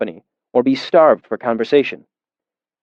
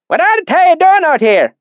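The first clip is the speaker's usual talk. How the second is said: suspicious; 5 dB louder than usual. Acted. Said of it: "he said suspiciously".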